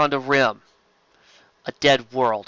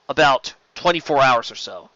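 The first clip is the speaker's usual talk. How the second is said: lightly voiced Narn; 4 dB louder than usual. Nonvar answers about repairs.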